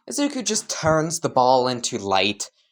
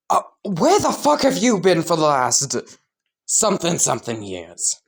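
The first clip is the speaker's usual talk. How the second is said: indignant demand; 4 semitones higher than usual. Acted. Kacchan confronts long-missing Izuku.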